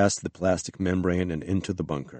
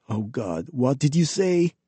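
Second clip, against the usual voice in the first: exasperated groan; 7 semitones higher than usual. A narrator's reading. Exasperated companion rolls his eyes at colleague, exasperated. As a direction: roll your eyes with the voice.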